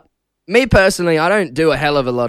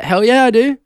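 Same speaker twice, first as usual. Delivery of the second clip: excited; 7 semitones higher, 4 dB louder than usual. Retold or imitated. Retold eager reply to parents.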